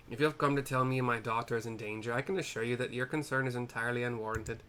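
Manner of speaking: light, shaky attempt at an Irish accent; dismissive businessman with a hint of Irish; kind of Irish. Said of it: "I made him kind of Irish".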